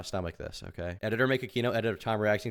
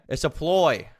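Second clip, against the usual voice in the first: raised, high, loud declaration; emphatic insistence; 7 semitones higher, 6 dB louder, slower than usual. Real, not acted. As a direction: call it out loudly to chat. Worked-up rant, insisting to chat.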